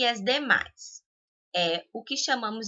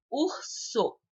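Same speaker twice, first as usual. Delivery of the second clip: Urso with UR higher and held; stress on first syllable; 4 semitones higher, 4 dB quieter than usual. Shown as a demonstration. Teacher giving a paroxytone example, stress on UR in Urso. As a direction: lean on the Ur- of Urso. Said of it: "Ur é mais forte".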